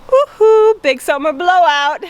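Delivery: quick jump high and loud on woohoo, then lightly voiced shopkeeper cheer; a playful nod to the Frozen shopkeeper's sales cry; Oaken impression. Mom quoting the dog's namesake to viewers, cheery put-on shopkeeper. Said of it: "my kids named him after the character in Frozen named Oaken".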